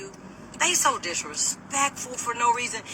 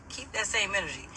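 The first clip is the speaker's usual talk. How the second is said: calm retort; 8 dB quieter than usual. Retold or imitated. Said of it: "I was so calm".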